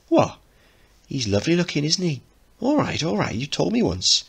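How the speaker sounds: high, huffy lad's voice; jealous teen boy. Acted. Teacher voicing Mickey, huffy and high. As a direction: snap back like a jealous kid.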